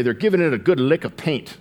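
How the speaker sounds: a bad, hammed-up British accent on the quote; terrible British accent. Preacher mocks the English with a terrible British accent. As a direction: try a posh British voice and miss. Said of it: "That's, that's a terrible British accent".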